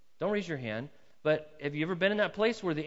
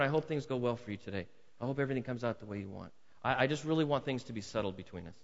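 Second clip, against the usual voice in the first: sincere goodwill. Acted. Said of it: "Is it typical for us to walk over and".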